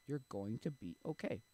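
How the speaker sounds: gently reassure, spacing the words out; lightly acted, unhurried reassurance; reassuring God. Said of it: "I'm like, God's like".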